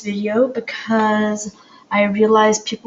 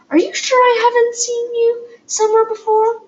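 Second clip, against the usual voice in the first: put-on French accent; 14 semitones higher than usual. A narrator's reading. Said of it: "faint French accent".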